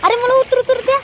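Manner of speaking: high-pitched, alarmed plea; pleading to get off. Real, not acted. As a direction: beg them to stop and let you down.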